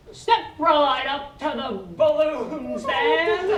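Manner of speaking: slow carnival barker pitch; snake oil seller. Acted. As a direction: draw the crowd in slowly, like a huckster. Improv carnival seller opening scene.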